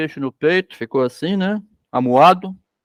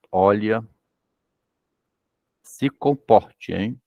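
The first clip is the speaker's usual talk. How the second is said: through closed lips; 7 semitones lower, much slower than usual. Retold or imitated. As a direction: press the words out slowly through tight lips. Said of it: "fala com a boca fechadinha".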